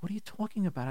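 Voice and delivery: soft, groggy bewilderment; acted half-awake wife. Wife woken by angry husband, half awake. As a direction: murmur it softly as if just woken. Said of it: "She's, like, half awake".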